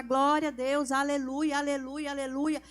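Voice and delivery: loud, fast burst of Glória a Deus; praise out loud. Shown as a demonstration. Preacher shows the congregation how to praise, loud and fervent. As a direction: show the church how to start praising. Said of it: "começa a falar".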